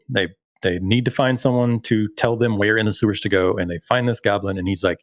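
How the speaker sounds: ordinary delivery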